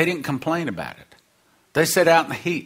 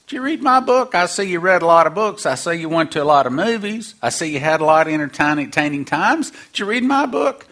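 lightly voiced Jesus asking; 3 semitones higher, faster than usual. Jesus voiced questioning believer.

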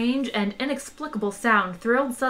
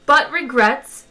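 louder, slow, drawn-out regret; courteous menace; 4 semitones higher, 7 dB louder, slower than usual. Acted. Magrathean recording announcing closure, slow menace.

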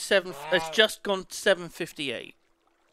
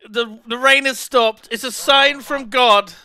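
mock solemn joy; 5 semitones higher, 9 dB louder than usual. Real, not acted. Rain stops before wedding.

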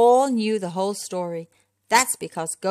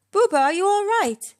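high, loud, concerned call; high-pitched cry of concern; anxious group question; 12 semitones higher, 7 dB louder than usual. A narrator's reading. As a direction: ask urgently, worried for a friend. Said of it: "they all asked at once".

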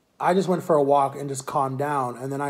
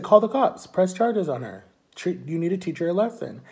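insistent dad; 4 semitones higher than usual. Retold or imitated. Her dad telling the speaker to press charges, insistent. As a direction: urge it like an indignant parent, easing off. Friend's angry dad urging action.

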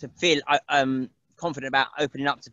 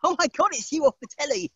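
hammed-up old nan cooing at a TV face; Catherine Tate voice; 11 semitones higher than usual. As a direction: put on a shrill-pitched, delighted granny greeting. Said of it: "she was there going".

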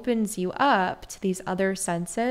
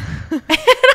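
a sudden burst of high, loud laughter; 13 dB louder than usual. Real, not acted. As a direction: laugh out hard, overwhelmed. Laughing while recalling her daughter.

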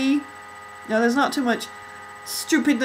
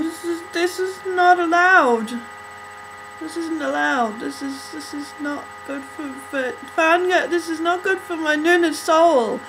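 out of breath; 4 semitones higher than usual. Real, not acted. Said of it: "I'm still out of breath".

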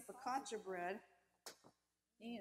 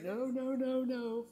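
louder, higher mock scolding; firm no; 5 semitones higher, 11 dB louder, much slower than usual. Mom refusing her crying daughter, loud firm no. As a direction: refuse the pleading kid flatly. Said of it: "Mom kept saying".

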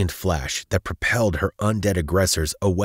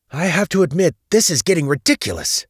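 high, loud exclamation in battle; exasperated; 12 semitones higher, 7 dB louder, faster than usual. A narrator's reading. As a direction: blurt it out, fed up mid-fight. Same heroine, fighting off crows, exasperated.

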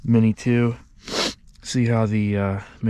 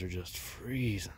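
whispering; 2 semitones lower, 10 dB quieter, slower than usual. Real, not acted. Drone pilot freezing outdoors.

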